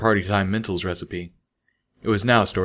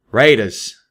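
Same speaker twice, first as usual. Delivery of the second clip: alarmed warning; 2 semitones higher, 6 dB louder than usual. A narrator's reading. Warning call after aerial sweep.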